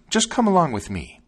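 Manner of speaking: high, eager bird character; high-pitched, encouraging little bird; sparrow voice. A narrator's reading. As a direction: pipe up high as a helpful sparrow. Sparrow leading the dog on.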